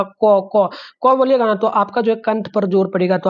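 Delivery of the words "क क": teacher showing the students how to say क; demonstrating the sound क. Shown as a demonstration. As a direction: say क twice, crisp from the throat. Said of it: "एक बार क आप लोग बोल के देखिएगा".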